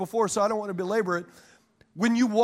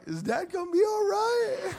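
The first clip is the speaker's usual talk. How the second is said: put-on worried kids; 10 semitones higher than usual. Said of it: "My kids are like".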